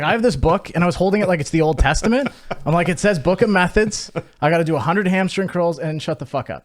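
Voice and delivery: hammed-up know-it-all younger self; zealous mock self. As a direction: hold the book up like scripture. Mocking his zealous younger self.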